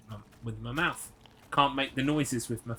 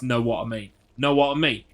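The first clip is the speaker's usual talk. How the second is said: light Cockney "know what I mean", a bit louder; Cockney catchphrase; 7 dB louder than usual. Retold or imitated. Imitating Auntie Dina's Cockney catchphrase to a viewer. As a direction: quote Auntie Dina in a mild Cockney lilt. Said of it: "She was a Cockney".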